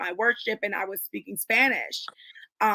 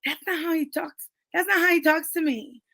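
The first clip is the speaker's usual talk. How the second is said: indignant retort; 4 semitones higher than usual. Retold or imitated. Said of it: "I'm like".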